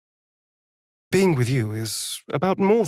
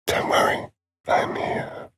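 reassuring whisper. Acted.

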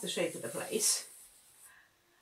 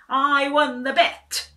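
loud, high, slow victory cry; triumphant shout; 7 semitones higher, 14 dB louder, slower than usual. A narrator's reading. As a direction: crow it out in triumph. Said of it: "he shouted".

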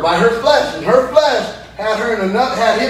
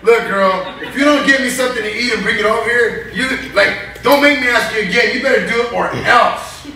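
bossy husband. Retold or imitated. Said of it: "He's like".

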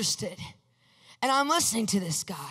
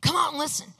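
raised voice calling to the next room; calling out to Mom; 4 semitones higher than usual. Retold or imitated. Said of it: "And I remember calling to Mom".

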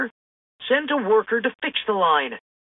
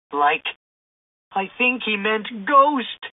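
Shaggy exclaiming; 3 semitones higher, slower than usual. A narrator's reading. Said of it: "Shaggy exclaimed".

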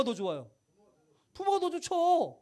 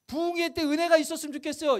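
pleading prayer demo; 2 semitones higher than usual. Shown as a demonstration. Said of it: "이거 백 번 하면 쪼르는 거죠?".

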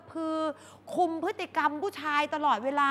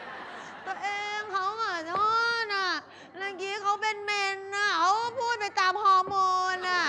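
pleading apology; 5 semitones higher, slower than usual. Retold or imitated. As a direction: sweet-talk him back. Girlfriend begging forgiveness.

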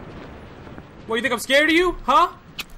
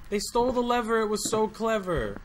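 smug joke; 2 semitones lower, 9 dB quieter than usual. Real, not acted. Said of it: "Get it?".

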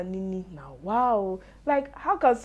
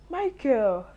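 exclaim; 5 semitones higher, 4 dB louder than usual. Real, not acted. Exclaiming at his antics.

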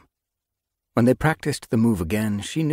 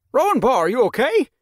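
worried call; 8 dB louder than usual. Acted. Mentor rushes to injured apprentice.

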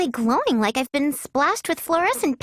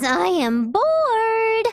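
bored whine; 6 semitones higher, much slower than usual. Acted. Drawn-out complaint of boredom.

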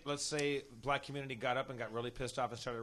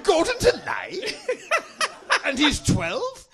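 booming mock shout; 13 semitones higher, 13 dB louder, much slower than usual. Mock Brian Blessed-style booming.

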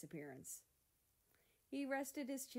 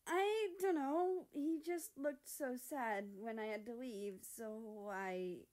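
higher, slow, trailing voice; sheepish excuse; 5 semitones higher, 4 dB louder, slower than usual. Acted. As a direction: mumble it guiltily. America sheepish explanation.

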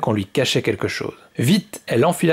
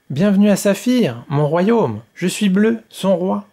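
put-on higher, friendly little boy king; gentle greeting, pitched up; kindly welcome; 7 semitones higher than usual. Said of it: "dit le petit garçon avec bienveillance".

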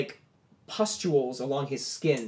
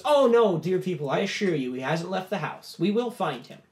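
soothing host; 4 semitones higher than usual. Acted. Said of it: "Lalos goes".

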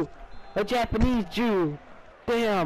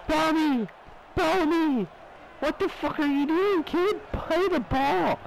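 angry coach yell; 5 semitones higher than usual. Pretend. Yelling at a teammate in game.

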